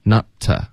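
"not to" with t dropped, "to" reduced to tuh; "Not to" run together as nah-tuh; weak "to". Shown as a demonstration. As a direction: swallow the t of "not", weaken "to". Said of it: "to弱读成t".

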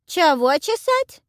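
high, loud, slow granny query; deaf old crone. Acted. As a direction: ask back like a half-deaf grandma. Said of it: "уточнила я". (глухая старуха переспрашивает медленно)

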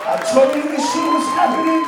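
very high, loud squeal; squealed warning. Acted. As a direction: shriek it in a falsetto.

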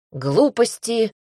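a touch of irritation, drawn out slowly; slow annoyed dismissal; mild angry retort. Acted. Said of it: "сердился Майрон". (слегка сердито, медленно)

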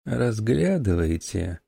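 put-on slow creaky old man. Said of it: "раздался скрипучий голос".

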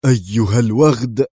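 sudden cry of outrage; outraged yell. A narrator's reading. Commander suddenly grasps the betrayal, outraged yell. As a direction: burst out with the insult. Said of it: "وصرخ".

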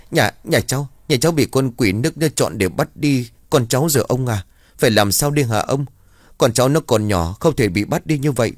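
high, tearful, stammering mother; a mother crying for her child, tearful and high; weeping plea. Acted. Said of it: "chạy đến nhà tôi khóc lóc".

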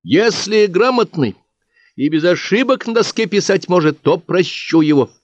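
a teacher announcing to the whole crowd; deliberately loud. Acted. Katya speaks up loudly so all the villagers hear.

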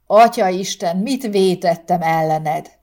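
loud, slow lament; anguished cry to God. Acted. Father lamenting to God, loud anguish. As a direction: cry it to the heavens. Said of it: "az arcát először az égre emelve".

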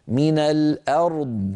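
slow من الأرض with the r sounded before the d; من الأرض held slowly, r and d both clear. Shown as a demonstration. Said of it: "نبين الراء".

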